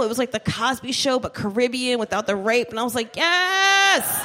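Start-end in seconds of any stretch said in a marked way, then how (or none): 3.2-4.3 excited yes. Retold or imitated. Retold delighted reaction.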